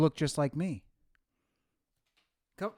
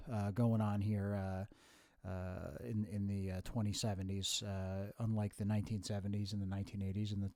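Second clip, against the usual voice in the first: a hint of a measured old professor, softer; lightly voiced professorial future self; 3 semitones lower, 6 dB quieter than usual. Future self explains to his younger self, lightly professorial. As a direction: speak low and deliberate, like a lecturer.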